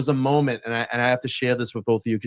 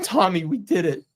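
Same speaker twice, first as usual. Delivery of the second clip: higher, choked-up retelling; moved, pitched-up recollection; emotional; 5 semitones higher than usual. Real, not acted. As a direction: voice rising with emotion as he recalls it. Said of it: "And I'm gonna get emotional".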